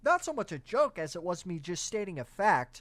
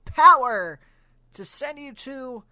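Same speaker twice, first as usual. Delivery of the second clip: higher, louder, strained robot sidekick voice; Alpha Five robot voice; 5 semitones higher, 7 dB louder than usual. Retold or imitated. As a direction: play the panicky little robot helper, pushed up high. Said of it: "Alpha Five said".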